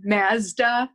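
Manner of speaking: "Mazda" drawn out with the A of "cat"; local short A. Shown as a demonstration. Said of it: "that sounds weird to me".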